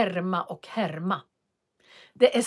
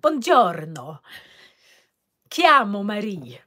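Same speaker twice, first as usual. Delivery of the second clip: Italian practice. Retold or imitated. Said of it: "så jag härmar".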